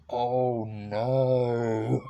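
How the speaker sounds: high, loud gasping oh no; shocked oh no. Retold or imitated. Viewer watching the scene, loud horrified oh no. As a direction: recoil in mock horror. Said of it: "you're like".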